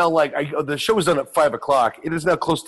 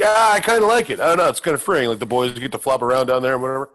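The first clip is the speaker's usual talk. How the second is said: playing it off casually; 2 semitones lower, faster than usual. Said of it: "So I'm just playing it off like".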